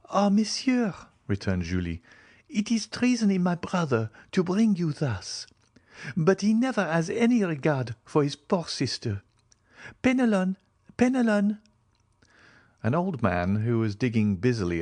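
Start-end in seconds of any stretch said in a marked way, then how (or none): 0.1-0.9 put-on high-pitched young madame's exclamation; Julie's voice. A narrator's reading. Julie's startled reply to visitor. 2.5-11.6 high-pitched, reproachful sister's voice; flustered Julie. A narrator's reading. Julie scolds brother, calls servant.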